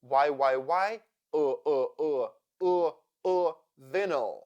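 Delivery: Y repeated, then UH repeated, into vinyl; schwa drill. Shown as a demonstration. Teacher drilling the unstressed second syllable of vinyl, schwa drill. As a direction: drill Y turning into a neutral UH before vinyl. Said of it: "Y also sounds like uh".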